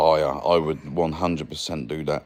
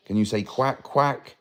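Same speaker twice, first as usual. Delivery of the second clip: high, rising sing-song coaxing; 6 semitones higher than usual. Real, not acted. Coaxing toddler to say quack.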